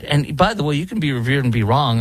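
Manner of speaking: ordinary talk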